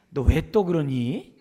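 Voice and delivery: slow, drawn-out reproach; mock scolding mother. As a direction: drag it out like a tired nagging mom. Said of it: "엄마가 뭐라 그래요?". (느릿하게 나무라는 엄마 흉내)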